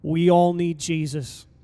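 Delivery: ordinary delivery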